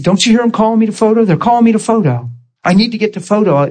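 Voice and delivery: a lightly voiced flustered manager hurrying off; rushed manager. Hurried manager wanting to leave.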